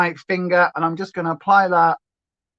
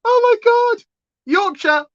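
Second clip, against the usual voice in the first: excited exclamation; 14 semitones higher, 3 dB louder than usual. Real, not acted. Excited at viewer suggestion.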